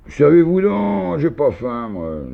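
« j'ai pas faim, moi » appuyé, très aigu et lent au début; appuyé sur la fin. A narrator's reading. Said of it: "en appuyant sur ces derniers mots". (« moi » appuyé avec emphase)

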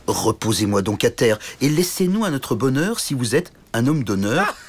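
small knight pleading politely; a brave little knight's earnest plea; lightly voiced polite little knight.

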